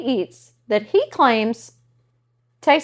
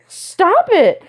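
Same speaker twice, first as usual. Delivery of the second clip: loud; 13 semitones higher, 8 dB louder than usual. Retold or imitated. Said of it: "I'm like".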